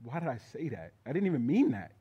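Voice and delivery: regretful. Retold or imitated. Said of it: "I was truly like".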